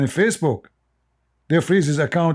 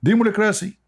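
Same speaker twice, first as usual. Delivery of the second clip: put-on Libyan accent; 7 semitones higher than usual. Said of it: "In the Libyan accent".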